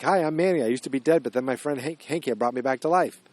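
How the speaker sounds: a light mock-cheery Manny quote; chipper Manny intro. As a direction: cheerfully introduce yourself to the girl. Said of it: "Danny Radcliffe's like".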